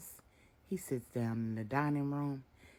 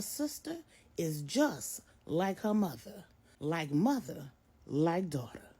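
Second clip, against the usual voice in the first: higher, louder, pointed; stern revealing mother; 6 semitones higher, 4 dB louder than usual. A narrator's reading. Miss Brenda confronts Marcus about his affair, stern. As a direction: lay out the hard truth.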